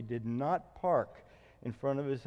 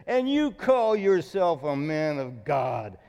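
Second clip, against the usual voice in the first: 1 scornful neighbor; 6 dB louder than usual. Retold or imitated. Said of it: "He's yelling at me".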